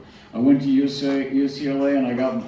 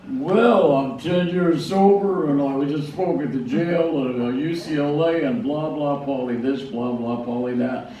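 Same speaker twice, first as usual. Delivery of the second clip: boastful rant. Retold or imitated. Bragging to Gary about his sobriety, mock boastful. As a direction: puff yourself up, half-mocking. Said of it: "I was on a rage telling him how wonderful I was".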